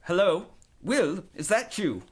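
light Irish lilt; lilting Irish aunt on the phone. Acted. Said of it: "Aunt Maureen's light lilt".

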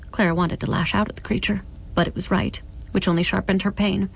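measured literary reading; narrator's even storytelling; story narration. A narrator's reading. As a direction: read the novel aloud, carefully phrased. Reads novel aloud.

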